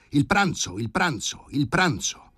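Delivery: high, insistent calling out; impatient high-pitched demand; urgent order. A narrator's reading. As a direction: call it repeatedly, pressing for haste. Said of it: "le ordinò di servire il pranzo senza indugio".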